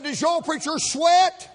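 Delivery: high, loud prying question; hammed-up nosy hairdresser. Hairdresser grilling the customer about his preacher, high and prying. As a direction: needle him like a shocked gossip.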